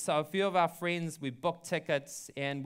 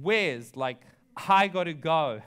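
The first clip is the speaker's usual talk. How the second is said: louder, pressing; a louder urgent plea from the friend; 6 dB louder, slower than usual. Retold or imitated. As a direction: beg him, it can't wait. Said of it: "she turned to me and she said".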